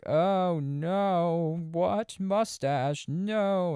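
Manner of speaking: high, loud put-on panic; hammed-up horror at the dead cat; mock distraught Rose. Rose finding the cat in the present, high mock panic. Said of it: "Rose is like".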